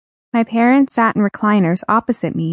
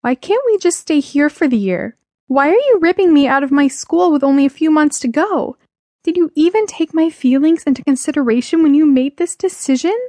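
higher-pitched, distressed questioning; upset protest; 7 semitones higher than usual. Acted. Teenager challenging parents over the move, upset and higher. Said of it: "I croaked".

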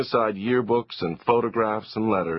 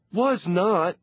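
put-on indignant boy; 9 semitones higher than usual. Boy protests.

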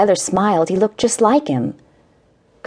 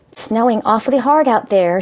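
brightening voice; 4 semitones higher than usual. Acted. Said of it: "her voice brightening".

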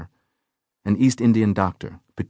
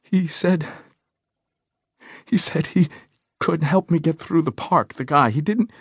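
high, wavering and trailing off; a frightened voice that keeps slipping away; fluttering voice; 10 semitones higher than usual. A narrator's reading. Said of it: "her voice fluttered away".

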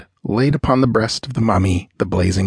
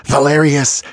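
Valerius called out higher and louder, falling; calling out; 6 semitones higher, 4 dB louder than usual. Acted. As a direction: call his name across the room in triumph. Calling out companions in triumph.

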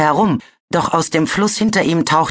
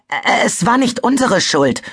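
high, stammering protest, voice cracking up; 9 semitones higher than usual. A narrator's reading. Webbs stammering his excuse to the Talons. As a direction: blurt it out in a nervous stammer. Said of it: "stammelte er".

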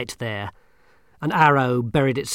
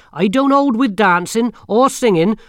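put-on stern old witch; 10 semitones higher, 10 dB louder than usual. Granny Weatherwax voiced.

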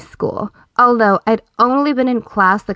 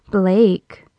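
sultry voice. Acted. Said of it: "I said in my most sultry voice".

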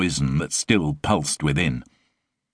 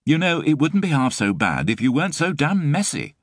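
exasperated sigh; 11 semitones higher than usual. Acted. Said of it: "she sighed".

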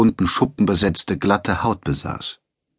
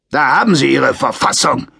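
a touch of menace, louder and higher; threatening; 5 semitones higher, 4 dB louder than usual. A narrator's reading. Sergeant after tearing up the book, mildly menacing. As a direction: sneer it as a veiled threat. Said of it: "erklärte er drohend".

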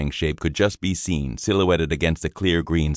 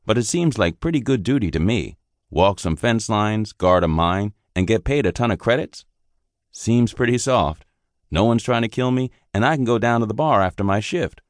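lightly voiced young soldier, a bit higher and bright-eyed; eager young private; 5 semitones higher than usual. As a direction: chatter on like a green recruit who likes easy duty.

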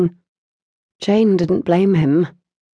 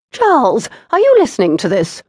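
indignant mother; 6 semitones higher, 5 dB louder than usual. A narrator's reading. Mother calling to husband.

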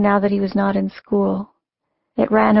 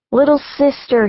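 a higher holler, playful; hollered back; 5 semitones higher than usual. Acted. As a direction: shout it back teasingly. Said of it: "he hollered back".

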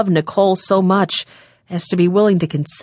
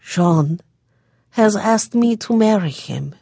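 defeated woe; 3 semitones higher than usual. A narrator's reading. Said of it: "a voice full of defeat and woe".

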